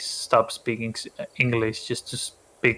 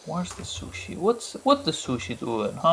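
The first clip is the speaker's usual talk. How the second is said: whispery sneaky voice; whispered character voice; 4 semitones higher, 5 dB quieter than usual. Pretend. Playing pet voice.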